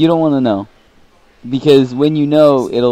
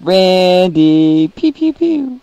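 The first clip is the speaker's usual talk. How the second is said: imitating Danny; 8 semitones higher, much slower than usual. Danny's catchphrase when Randy's in studio.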